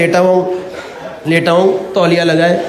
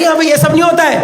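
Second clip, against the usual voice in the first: scolding doctor; 6 semitones higher than usual. Retold or imitated.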